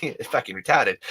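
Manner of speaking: lightly put-on Australian accent. Shown as a demonstration. Joking about words we don't use anymore, mock Australian accent. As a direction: slip briefly into an Aussie accent. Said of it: "say them in an Australian accent".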